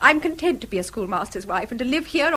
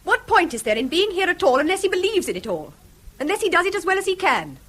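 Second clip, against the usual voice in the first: worked up; 3 semitones higher than usual. Acted. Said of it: "don't get so excited".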